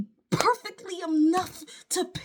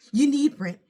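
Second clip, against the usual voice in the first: each "You need" hit louder and louder; rising frustrated list of bills; building emphatic list; 5 dB louder than usual. Real, not acted. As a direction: pound out the bills one by one, getting louder.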